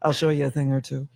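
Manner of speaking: lightly put-on smooth lover voice; saxophone voice. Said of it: "was that your saxophone voice".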